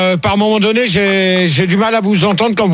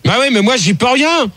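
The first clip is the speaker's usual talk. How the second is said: higher, defensive voice; exasperated protest; 4 semitones higher than usual. Real, not acted. Host answers complaints about bad sound, exasperated. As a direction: protest that you can't help it. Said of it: "Je vais pas m'amuser à gueuler".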